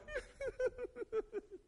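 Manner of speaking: very high, pulsing mock whimper. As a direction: imitate a kid falling apart in high little bursts. Imitates the other, yelled-at kid.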